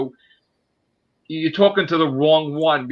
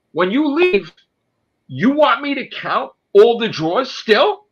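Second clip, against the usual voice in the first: much higher, loud, near-crying shout; furious rant; 12 semitones higher, 4 dB louder than usual. Real, not acted. Raging at the investigator who called him a thief, shouting. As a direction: yell it out, voice cracking with outrage.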